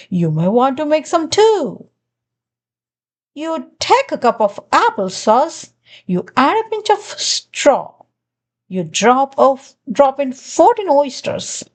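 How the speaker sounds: a hint of a sly, sugary glunk, quick in places; lightly voiced glunk. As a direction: play the glunk, sweetly pushy, not far from your own voice. Glunk's recipe on the phone.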